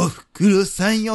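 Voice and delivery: a light enka croon, slow and drawn out; a quick nod to an enka singer's signature line; lightly crooned enka phrase; impression of an enka singer. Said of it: "演歌歌手のモノマネしますって".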